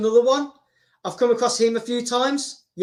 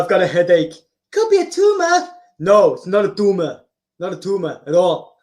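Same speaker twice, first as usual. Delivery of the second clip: Arnold impression; 3 semitones lower than usual. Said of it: "doing impressions".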